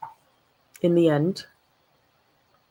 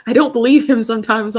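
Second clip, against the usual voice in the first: loud admission; 5 semitones higher, 10 dB louder than usual. Real, not acted. Laughing at own stubbornness.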